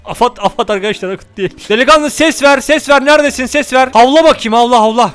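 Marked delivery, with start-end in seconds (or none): 1.7-5.1 calling out. Real, not acted. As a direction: call him to answer you. Calling out to find lost companion.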